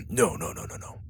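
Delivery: backing off, hushing it down. Acted. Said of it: "Dallas said a little quieter".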